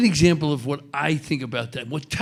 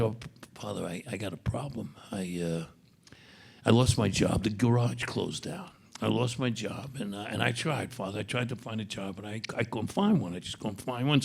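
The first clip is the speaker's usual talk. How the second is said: put-on softer, hushed and hesitant, a worried young man owning up; troubled confession; 3 semitones lower, 6 dB quieter than usual. Tony quietly confessing his job trouble to the priest, hushed. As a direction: speak low like you're ashamed to tell the priest.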